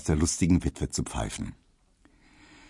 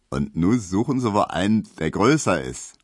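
teasing postman. Acted.

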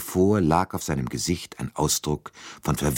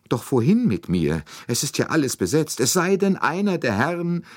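higher, plaintive lady's voice; fretting lady passenger; 12 semitones higher than usual. A narrator's reading. Lady passenger wondering where she can move, fretful. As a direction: worry aloud, pitch climbing to the end.

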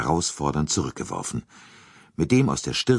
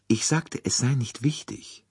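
higher-pitched, measured repeat; repeating for the listener; 7 semitones higher than usual. A narrator's reading. Detective repeating his mumbled remark to the colonel, in a higher voice. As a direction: repeat it in a lifted voice, without shouting.

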